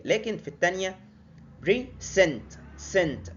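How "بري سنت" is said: بري سنت with the weight on سنت; stress on second syllable. Shown as a demonstration. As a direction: lean on سنت, the second half. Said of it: "اتكيت على السنت".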